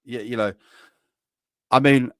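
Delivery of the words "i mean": badly faked Indian accent; half-hearted mock Indian accent; terrible Indian accent. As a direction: attempt an Indian accent and miss. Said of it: "That's a terrible Indian accent".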